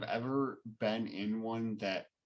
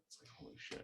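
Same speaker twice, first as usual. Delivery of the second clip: whispered amazement; 14 dB quieter, faster than usual. Real, not acted. Amazed at rows of porta potties.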